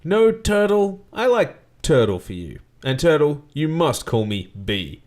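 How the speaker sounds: lightly voiced pompous boss; a hint of grand showman orders; Bert voice. Bert instructing his driver Turtle, lightly pompous.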